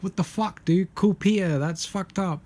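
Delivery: high, appalled imitation; mock disbelief. Onlooker to Peter after the kick, mock disbelief. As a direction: play a stunned onlooker. Imagined shock at Jackie Chan's kick.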